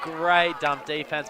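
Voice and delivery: loud, slow, emphatic praise; excited praise. Real, not acted. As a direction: call the great play with relish. Commentator praising a play.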